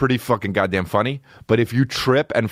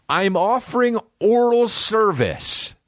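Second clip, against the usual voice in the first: much higher, slow, stiff robotic read; 12 semitones higher than usual. Retold or imitated. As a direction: squeak it out like a cheap robot. Robot ad, high voice.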